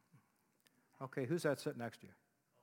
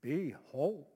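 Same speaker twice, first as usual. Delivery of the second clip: put-on giggly girl. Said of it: "one of them says".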